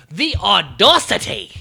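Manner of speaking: slow, loud "audacity" as aw-DOSS-ity; drawn-out mocking "aw-DOSS-ity"; mimicked odd pronunciation. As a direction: stretch "audacity" with a round "doss". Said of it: "she has a way of saying".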